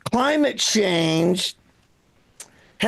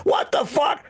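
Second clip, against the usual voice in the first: imitated curse from another room, pitched up; grumpy father-in-law; 6 semitones higher than usual. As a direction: mimic the father-in-law's habitual exclamation. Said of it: "Then I hear from the living room".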